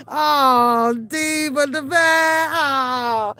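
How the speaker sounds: slow, drawn-out pitying moan; mock sympathy. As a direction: draw out each word in hammed-up pity. Retelling sympathy for Diva.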